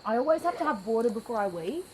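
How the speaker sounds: talking around a wad of gum; quick words with gum in the mouth; chewing gum. Real, not acted. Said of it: "I got gum in my mouth".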